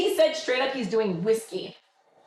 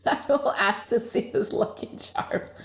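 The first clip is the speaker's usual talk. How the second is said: mock whisper; 3 dB quieter than usual. Real, not acted. Cheeky joke about lucky charms.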